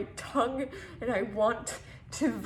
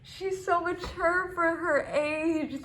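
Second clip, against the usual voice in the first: slow, higher, drawn-out admiration; mock gushing; 4 semitones higher, slower than usual. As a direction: imitate a gushing relative, stretching the words. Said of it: "they gush".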